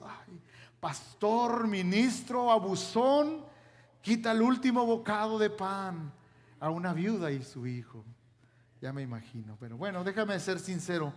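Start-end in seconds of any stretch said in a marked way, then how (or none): 0.0-8.0 mock online critic. Preacher mocking outraged commenters online. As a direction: mimic a scandalized social media post. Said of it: "Ahí en las redes sociales".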